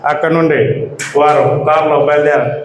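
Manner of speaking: put-on a milder return to the old news-anchor voice; Shanti Swaroop announcer impression. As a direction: slip back into the stately TV anchor read. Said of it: "శాంతి స్వరూప్ గారు".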